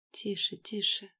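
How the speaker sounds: hushed and soothing; soothing whisper. Acted. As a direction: whisper to calm her. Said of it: "шептал я".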